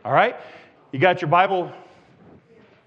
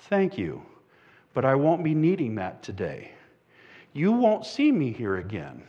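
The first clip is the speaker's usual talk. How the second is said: gentle refusal; 5 semitones lower, 5 dB quieter than usual. Acted. Poor woman gently declines the donation.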